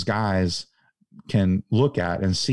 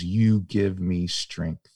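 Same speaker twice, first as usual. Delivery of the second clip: tender retold line; 4 semitones lower, much slower than usual. Shane's tender words to Annabelle.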